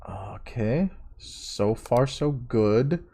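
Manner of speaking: whispered okay; whispering. Real, not acted. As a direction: breathe it out unvoiced. Sneaking through the level.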